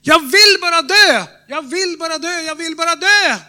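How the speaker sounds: high desperate cry of "Jag vill bara dö"; despairing old woman. Retold or imitated. Preacher voicing the suicidal old woman crying out, anguished. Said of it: "Hon skrek rakt ut".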